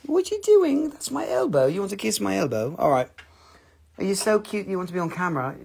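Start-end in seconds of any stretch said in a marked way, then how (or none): 0.1-2.8 pet talk. Real, not acted. Talking to pet Yogi.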